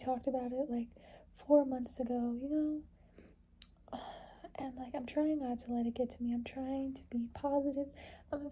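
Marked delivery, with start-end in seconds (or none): 4.0-4.5 weary sigh. Real, not acted. Venting about staying positive.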